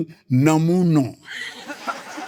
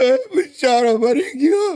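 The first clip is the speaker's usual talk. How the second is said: high tearful wail; mock crying; 8 semitones higher, slower than usual. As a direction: blubber it out like a hammy mourner. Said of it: "એકદમ રડાવે".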